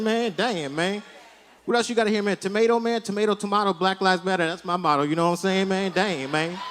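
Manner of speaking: lightly voiced hip-hop slang clerk; a hint of a street-talking clerk, loose and chummy. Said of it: "change how he talks".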